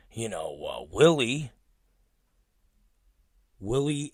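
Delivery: soft, compassionate murmur; Michael Moran. Retold or imitated. Producer fretting over another colleague, caring voice. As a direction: imitate a gently concerned friend. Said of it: "very compassionate about it".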